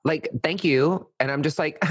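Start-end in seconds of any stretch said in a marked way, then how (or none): 0.4-1.1 higher, pointed thank you with a lift; condescending thanks. Acted. To someone who gave no thanks, condescending. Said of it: "it's a condescending thank you".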